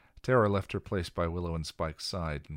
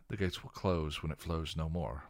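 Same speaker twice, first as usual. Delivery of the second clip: recited. Acted. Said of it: "Giles recited from the scroll".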